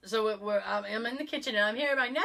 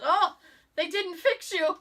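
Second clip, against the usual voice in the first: high, drawn-out appalled verdict; slow it down and pitch it up in mock dismay; comically appalled, high voice; imitated dismay; 8 semitones higher, 3 dB louder, slower than usual. Retold dismay that she is uncured.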